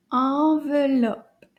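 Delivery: "Enveloppe" stretched slowly, syllable by syllable; slow model word. Shown as a demonstration. Teacher modelling new French word for children, slow and drawn out. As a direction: say "Enveloppe" slowly for learners to copy. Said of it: "Can you say that?".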